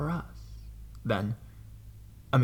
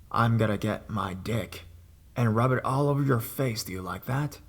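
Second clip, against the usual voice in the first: horrible creepy voice. Retold or imitated. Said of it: "In the most horrible voice".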